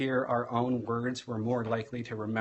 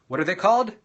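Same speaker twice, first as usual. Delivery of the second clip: high, loud prompting question; teacher cueing a group response; calling for callback; 6 semitones higher, 8 dB louder, much faster than usual. Shown as a demonstration. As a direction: call it out to the whole class.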